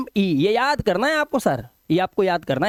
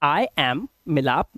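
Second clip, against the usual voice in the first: slow demo; 5 semitones lower, much slower than usual. Shown as a demonstration. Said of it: "तो मैं क्या बोलूंगा?".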